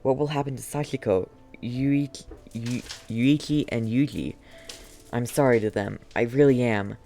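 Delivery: dying man's letter. Acted. Reads dying man's letter aloud.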